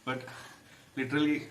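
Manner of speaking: numb tongue from chilli, slurred; thick tongue lisp. Real, not acted. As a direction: talk with a numb, burning tongue. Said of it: "the one side of my tongue is numb".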